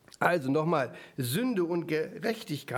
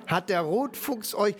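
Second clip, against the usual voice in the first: reading with emphasis; 2 semitones higher than usual. Shown as a demonstration. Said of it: "mit Betonung vorlesen".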